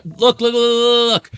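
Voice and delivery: high, loud, rapid-fire repeated urging; excited urging. Real, not acted. Host spotting the couple touching, excited urging.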